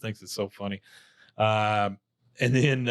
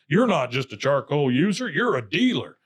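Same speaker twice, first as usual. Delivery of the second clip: higher, punchy skit-cop accusation; mock accusation; 4 semitones higher, 4 dB louder than usual. Cop confronts Bobby over the charcoal, mock-accusing. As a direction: accuse with hammed-up swoops in pitch.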